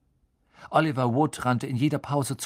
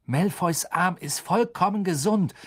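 indignant, raised voice; angry; 7 semitones higher than usual. A narrator's reading. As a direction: angrily protest. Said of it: "sagte Harry zornig".

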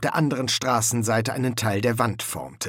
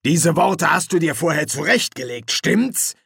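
suspicious; 5 semitones higher, 4 dB louder than usual. Acted. Sergeant suspects corporal's quip.

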